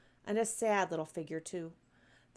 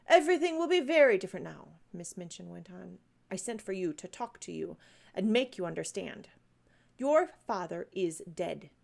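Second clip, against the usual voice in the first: cold headmistress; 3 dB louder than usual. Acted. Miss Minchin telling Sarah she has nothing, lightly voiced cold sternness. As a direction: spell out her losses coldly.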